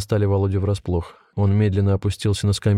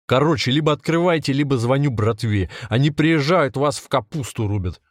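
raised-pitch ultimatum, restrained volume; angry threat; 5 semitones higher than usual. A narrator's reading. Volodya threatens to call his gang, mildly angry. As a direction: threaten them, pushing the key phrases up.

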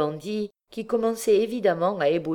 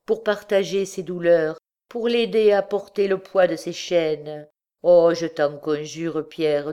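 begging mother; 2 semitones higher, 3 dB louder than usual. Acted. Mother begging for her son.

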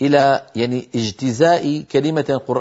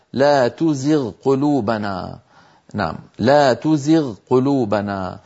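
slow recitation; 2 semitones lower, slower than usual. Shown as a demonstration. Reciting the verse.

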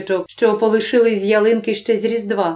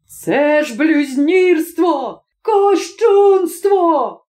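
slow, much higher, louder outraged shout; 6 semitones higher, 3 dB louder, much slower than usual. Acted. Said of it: "кричав прокурор".

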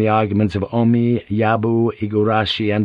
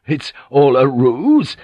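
slow, louder, a grin in the voice; delighted realisation; 4 semitones higher, 4 dB louder, slower than usual. Acted. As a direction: delight dawning as he asks. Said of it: "broke into a delighted grin".

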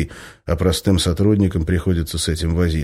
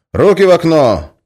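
loud, high commanding shout; barked order; 11 semitones higher, 8 dB louder than usual. Acted. Guard orders the prisoner's hands out, shouting. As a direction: bark the order through the hatch.

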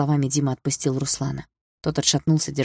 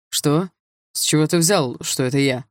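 mildly raised, startled protest; crying out. A narrator's reading. Accused rival denies he was behind it, crying out. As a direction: blurt it out in protest. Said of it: "выкрикнул Руслан".

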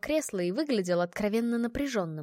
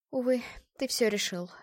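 sighing. Acted. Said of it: "вздохнула бывшая невеста".

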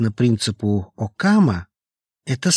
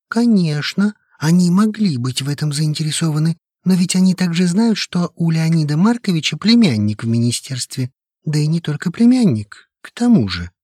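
agitated younger colleague; 6 semitones higher than usual. A narrator's reading. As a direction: argue fast and worked up. Lukin's voice arguing. (горячо, взволнованно)

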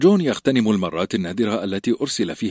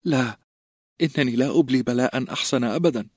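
holding back tears; 5 semitones higher than usual. A narrator's reading. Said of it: "محاولا كبت دموعه".

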